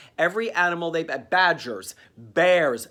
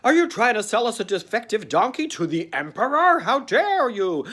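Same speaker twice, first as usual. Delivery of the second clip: indignant accusation; 6 semitones higher, 4 dB louder than usual. Acted. Buyer accuses seller of fraud.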